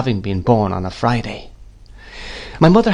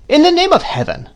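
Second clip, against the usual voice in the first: very high-pitched sudden outburst; sudden exclamation; 3 dB louder than usual. A narrator's reading. Miss Betsy breaking a silence, suddenly exclaiming. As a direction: burst out with it, pitched way up. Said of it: "said Miss Betsy suddenly".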